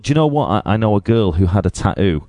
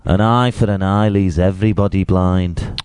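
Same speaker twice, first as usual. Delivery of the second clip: badly done mock Indian accent; a hint of a poor Indian accent; Gandhi's accent. Host repeats the Gandhi quote in his shaky-quality attempt at an Indian accent. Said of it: "your shit accent".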